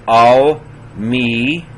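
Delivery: "Al, me" as separate, held syllables; sounded out. Shown as a demonstration. Teacher demonstrating a verse for students, sounded out. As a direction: say "Al, me" deliberately, pausing between. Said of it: "I thought I would do it".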